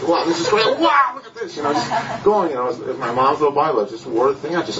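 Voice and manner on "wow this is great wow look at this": retold amazement. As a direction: voice jumps high on the second wow. Retelling excitement at reading the Bible.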